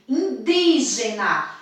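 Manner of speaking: indígena slowed, DÍ held long; slow demonstrative indígena, strong second syllable; stress on DÍ in indígena. Shown as a demonstration. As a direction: stretch the DÍ of indígena. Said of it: "A sílaba mais forte é di".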